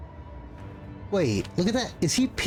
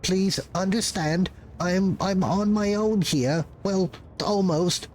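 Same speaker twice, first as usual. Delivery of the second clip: pleading clerk voice; 3 semitones higher than usual. Acted. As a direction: beg for understanding, flustered.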